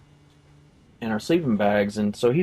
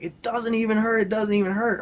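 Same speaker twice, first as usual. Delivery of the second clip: tearful joy; 9 semitones higher than usual. Retold or imitated. Friend bawling, healed.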